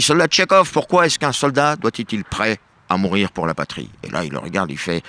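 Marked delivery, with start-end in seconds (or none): 0.0-3.9 mock general. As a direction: play the general inspecting troops. General questions next soldier.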